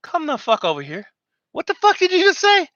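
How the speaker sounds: a gunny calling you over, then exploding; imitating an angry gunny. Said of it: "The Gunny look at you and probably like".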